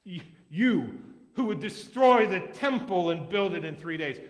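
loud, slow jeer rising high; passersby jeering at the man on the cross; deriding taunt. Acted. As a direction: taunt him to save himself. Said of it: "derided him".

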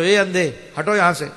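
acted dismissive call; rude call. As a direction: order someone out of the way. Acts out rudely addressing a blind man.

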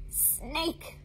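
playful gasp at a snake. Acted. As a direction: pretend to be startled. Mock fright at snake.

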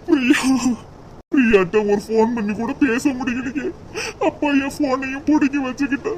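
weeping complaint about his father; crying son's lament; tearful lament. Acted. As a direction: let the tears colour every word. Son grieving father's refusal.

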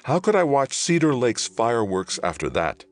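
high, loud rhetorical question; impassioned protest. A narrator's reading. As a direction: burst out in protest, starting high and stepping down. Johnny's anguished protest to his brother.

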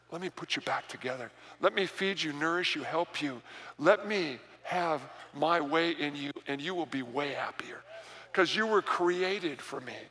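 soft, low voice of God coaxing gently; God's tender voice. Acted. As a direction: speak as God, quietly and tenderly inviting. God speaking tenderly to listener.

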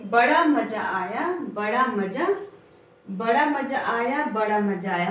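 drawn-out rhyme lines read aloud; slow poem recitation. Shown as a demonstration. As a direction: recite the lines slowly, sing-song. Repeats poem line. (धीमी कविता पाठ)

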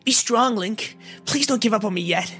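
high, sorrowful fairy plea; pained urging. A narrator's reading. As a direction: urge him on in a high, pained voice. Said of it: "sorrow that was reflected in her pained voice".

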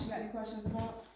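breathless after the stairs; winded, catching breath between words. Real, not acted. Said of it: "I'm out of breath again".

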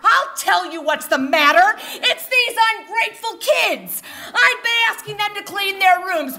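ranting mom. Retold or imitated. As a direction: tear into it like a fed-up mother. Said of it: "my mother screamed".

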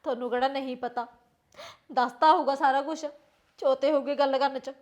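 low, tearful reproach; subdued, weepy resentment; crying. Acted. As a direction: answer bitterly through tears. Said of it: "ਪੁੱਤ ਕਿਉਂ ਰੋਈ ਜਾਨੀ ਆ".

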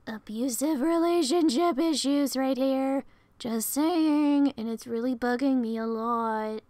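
loud slow exasperation; loud, drawn-out complaint aside; loud annoyed. Real, not acted. Aside on the story.

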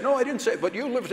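high-pitched, protesting back-and-forth; mock bickering. Speaker imitates couple fighting about the fight, mock bickering.

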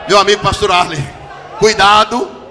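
slow, loud, drawn-out cuidado; God warning the pastor; stern loud warning. Acted. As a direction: stretch the warning like a divine call.

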